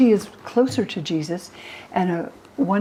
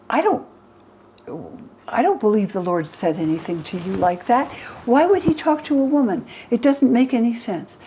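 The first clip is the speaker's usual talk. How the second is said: angry Peter; 4 semitones higher than usual. Retold or imitated. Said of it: "And Peter gets angry".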